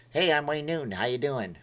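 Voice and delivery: half-hearted crooner impression; a weak attempt at a showman's voice; a singer. Streamer admits he can't do it, feeble celebrity impression. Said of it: "I can't do a Wayne Newton impression".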